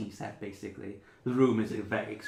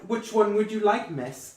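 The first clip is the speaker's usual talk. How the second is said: polite clerk; 11 semitones higher, 11 dB louder than usual. Retold or imitated. Shop clerk quoted.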